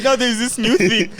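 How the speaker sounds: laughing through a friend's story of being asked to say squirrel; high laughing retell. Retold or imitated. Telling friends the squirrel story, laughing. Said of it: "he was like".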